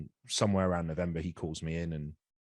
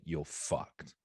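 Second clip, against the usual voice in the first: quiet dread; 2 semitones lower, 6 dB quieter than usual. Retold or imitated. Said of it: "it sunk in and I was like".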